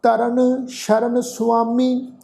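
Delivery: slow Gurbani verse with stretched vowels; measured, sustained sacred reading; scripture recitation. Shown as a demonstration. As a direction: recite line by line, slowly and steadily. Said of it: "ਪਾਠ ਉਚਾਰਨ ਕਰਦੇ ਹਾਂ".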